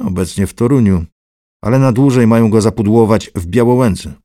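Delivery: loud, sharp and commanding; bossy Lichutki. Acted. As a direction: order him around. Lichutki bosses Mural.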